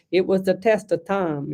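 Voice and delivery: a mock mixed American-Italian accent, lightly done; hint of an Italian-American lilt on a heard phrase; half American, half Italian accent. Psychic repeating a spirit lady's words, light American-Italian accent. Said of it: "I probably sound like half an American, half an Italian".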